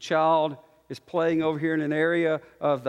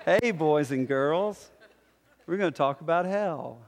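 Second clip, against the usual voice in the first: Mister Rogers. Retold or imitated. Preacher greeting boys and girls before hell, a hint of Mister Rogers. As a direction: talk to little kids, mildly put-on niceness. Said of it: "just like the Mister Rogers of the pulpit".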